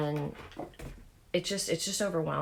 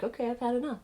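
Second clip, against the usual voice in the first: fed up; 8 semitones higher, faster than usual. Retold or imitated. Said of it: "I was just like".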